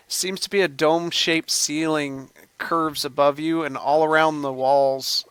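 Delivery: measured descriptive narration; game master's scene setting. A narrator's reading. Game master describes the cavern and its creature, narrating. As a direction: paint the cavern steadily for the players.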